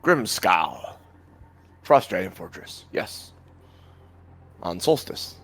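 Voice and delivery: talking orb. Acted. Game master as the orb announcing the fortress, lightly voiced talking orb. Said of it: "the orb actually speaks out and goes".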